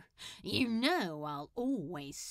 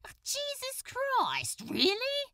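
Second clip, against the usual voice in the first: exasperated groan. Acted. Crowley balks at using the title.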